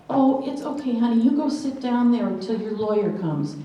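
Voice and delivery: imitating someone talking down to her; condescending brush-off. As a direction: sweetly dismiss her like she's nobody. Clerk dismissing the woman lawyer.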